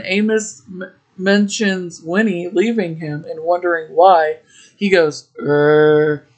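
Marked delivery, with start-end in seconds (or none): 5.4-6.3 short low growling grunt; mock growl. Silent Elmo answers Amos with a mock growl. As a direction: growl instead of a line, half-hearted. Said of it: "he just grunts and growls".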